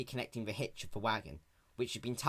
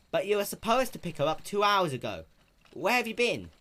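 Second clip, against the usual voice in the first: higher, louder worried mare; alarmed question; 8 semitones higher, 5 dB louder than usual. Acted. Applejack learning Spike is two hours late, alarmed. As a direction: press him, alarmed.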